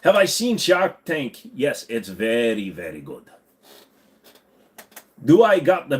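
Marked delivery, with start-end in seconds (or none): 0.0-3.2 put-on Irish accent. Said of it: "We're gonna talk like this now".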